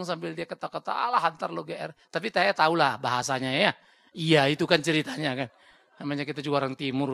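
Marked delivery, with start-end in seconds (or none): 0.9-1.9 laughing wife. Retold or imitated. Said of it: "sambil dia ngomong".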